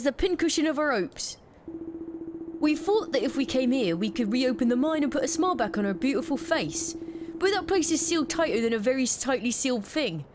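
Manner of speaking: lightly voiced Cockney miner, fond then fed up; a hint of a grumbling London miner. NPC miner dialogue read aloud.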